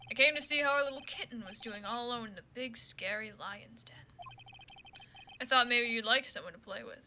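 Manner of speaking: lightly voiced cocky tease; a hint of smug taunting; smug teasing. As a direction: purr the tease at the rookie.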